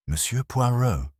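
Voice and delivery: lightly voiced anxious young woman; educated maid. A narrator's reading. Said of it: "educated accent of one who had risen".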